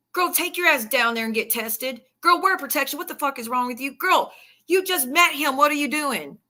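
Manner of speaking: mock scolding. To girlfriends about being careless, mock scolding. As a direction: play at scolding a friend in disbelief.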